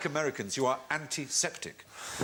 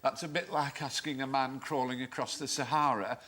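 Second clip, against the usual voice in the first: weary. Retold or imitated. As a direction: sigh it out like a tired man. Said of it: "replied wearily".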